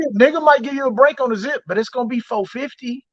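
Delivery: mock dealer voice. Dealer quoting his price.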